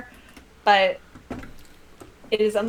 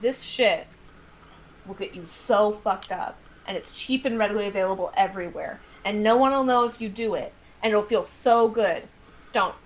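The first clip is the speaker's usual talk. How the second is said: mock DARE cop. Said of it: "They would be like".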